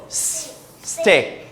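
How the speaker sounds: long unvoiced S hiss, then stick; S hissed before stick. Shown as a demonstration. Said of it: "one, two, three, go".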